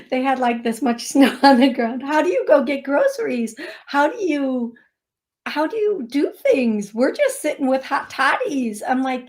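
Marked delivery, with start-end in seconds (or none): 2.0-8.8 imitated bewildered questions, pitched higher; baffled questioning. Florida woman asking how to get groceries in snow, baffled. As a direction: mimic someone who can't fathom it. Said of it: "woman in Florida who was asking".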